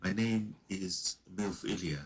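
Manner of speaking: posh character voice. Retold or imitated. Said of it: "Speak like this".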